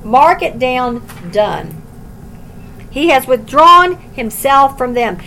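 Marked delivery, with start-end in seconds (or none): 2.9-5.2 louder, firmly read verse; declared firmly. Shown as a demonstration. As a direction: state the verdict firmly. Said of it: "There is no sadder phrase than this".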